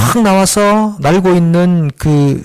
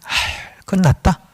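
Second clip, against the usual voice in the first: lament; 4 semitones higher, 5 dB quieter, slower than usual. Retold or imitated. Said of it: "그냥 신세 한탄".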